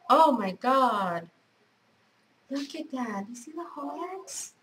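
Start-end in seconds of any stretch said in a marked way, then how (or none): none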